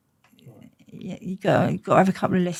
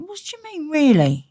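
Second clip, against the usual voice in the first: much higher, disbelieving squeal on mean; a baffled, outraged rising protest; incredulous; 10 semitones higher, 4 dB louder than usual. Retold or imitated. She retells her shock at her dad's words, high and disbelieving. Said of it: "coming out that dream thinking".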